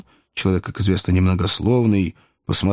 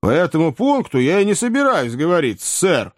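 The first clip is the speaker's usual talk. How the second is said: higher-pitched, lively retort; objecting; 9 semitones higher than usual. A narrator's reading. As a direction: object politely but firmly. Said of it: "возразил Сэм".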